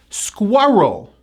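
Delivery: Squirrel as SKWUR-rul, joined; strong W and R. Shown as a demonstration. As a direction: say Squirrel carefully with firm W and R. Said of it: "strong hidden W sound in this word".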